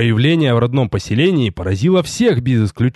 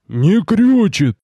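higher, louder, slow disbelieving gasp; stunned squeeze-out; 7 semitones higher, 3 dB louder, much slower than usual. Acted. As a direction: force the words out in shock. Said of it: "выдавил Рикар".

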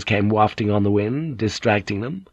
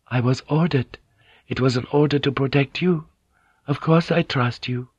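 lightly voiced Mariko; 4 semitones higher than usual. Mariko defends herself to Blackthorn.

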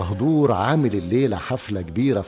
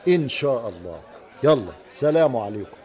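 laughing. Acted. وداع ضاحك بين الأصدقاء.

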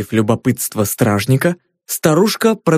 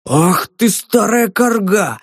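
outraged, slow and higher; indignant; 6 semitones higher, slower than usual. A narrator's reading. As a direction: spit out the insult in indignation. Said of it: "возмутился толстяк".

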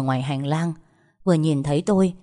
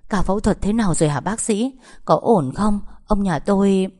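anxious, hurried; 3 semitones higher than usual. Acted. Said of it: "cuống quýt hỏi".

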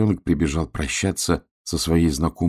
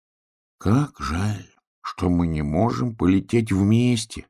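sighing; slower than usual. Acted. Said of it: "вздохнул поросенок".

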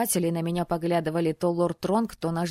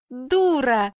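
a playful, louder, higher jab with no malice; good-natured snort; 5 semitones higher, 5 dB louder than usual. A narrator's reading. Girlfriend teasing the hesitant heroine, good-natured snort. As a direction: tease a friend with a harmless huff. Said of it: "беззлобно фыркнула Элайза".

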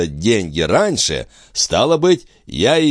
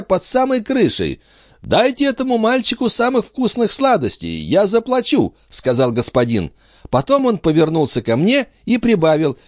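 put-on high, eager small boy; little boy. A narrator's reading. Son telling parents about the coin, high childish. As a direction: answer like a proud little child.

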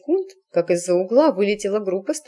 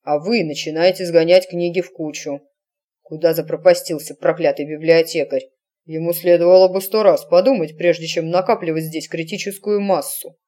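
commanding wizard; 3 semitones lower than usual. Acted. Senior wizard gives orders.

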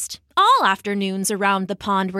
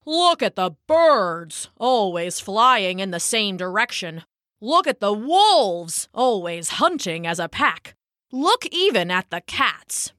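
put-on grumpy old bullfrog. Bullfrog lecturing the pond.

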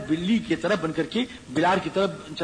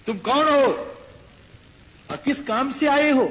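louder, higher, stern question; challenging demand; 5 semitones higher, 3 dB louder than usual. Acted. Lankini confronts Hanuman at the gate, loud and stern. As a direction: bark the demand at the stranger.

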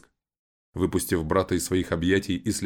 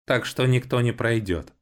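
creaky robot voice; 6 semitones higher than usual. A narrator's reading. Guard robot repeats never.

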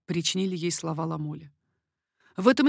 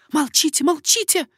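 higher, louder commanding; ordering silence; 9 semitones higher, 9 dB louder than usual. A narrator's reading. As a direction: order him to hush. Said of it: "приказала королева".

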